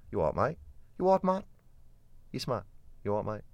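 put-on Aussie matey greeting; Australian accent. Shown as a demonstration. Showing how close Australian is to Kent, Australian accent. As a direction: slip into broad Australian. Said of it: "change my accent into Australian".

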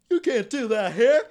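high, loud scolding; scolding bartender. Pretend. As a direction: tell him off. Bar patron scolding.

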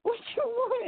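high, aggressive mock challenge; hammed-up drunk brawler; what you want, what you want; imitating gruff Howard. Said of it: "Howard is very gruff".

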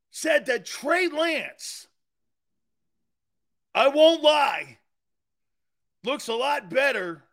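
high, loud, slow through suppressed laughs; trying to say it without laughing; holding back laughter. Real, not acted. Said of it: "I gotta say it without laughing".

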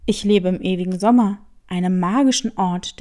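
low, fast, enticing tomcat; mysterious cat. Acted. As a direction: lure him in with a low voice. Cat describes magic place. (tiefer, lockender Kater)

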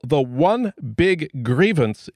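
ONE BIG GRIEVANCE with each word set apart and weighted; capital-letter emphasis. Acted. Host quoting the guest's book, "one big grievance" in capital-letter emphasis. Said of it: "in capital letters".

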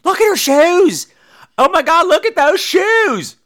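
high, wailing shriek over shoes; Bradford. Acted. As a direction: exclaim in hammed-up dismay, high. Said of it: "Bradford just keeps going".

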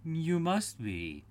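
unhurried talking-cat voice; Cheshire Cat. A narrator's reading. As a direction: draw it out teasingly like the Cat. Cheshire Cat answers Alice.

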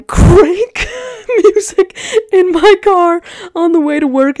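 real morning hype, loud and high; hyped up. Real, not acted. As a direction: sell how hyped the morning drive is. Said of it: "I am hype as fuck in the morning".

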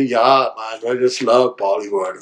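lightly put-on film-star gush; a hint of phoney Bollywood enthusiasm; mock showbiz charm, barely shifted from his own voice; fake showbiz voice. Shown as a demonstration. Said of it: "put a face on and pretend and talk like this".

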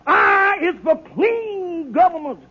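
orate to the crowd like a politician; hammed-up stump speech; soapbox speech. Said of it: "I stood on that soapbox and I said".

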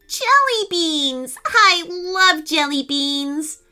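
high, slow, gushing delight; delighted squeal. A narrator's reading. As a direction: savour every word like a treat. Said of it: "rushing up to a nearby plant".

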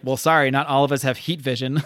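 sarcastic line said through a laugh; laughing sarcasm. Retold or imitated. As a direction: tease him while laughing. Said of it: "I really like that line".

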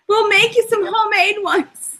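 high-pitched silly coaxing; playful luring. Acted. Co-host joining the villain recruiting joke, playful coaxing. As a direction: sweeten the offer in a put-on high voice.

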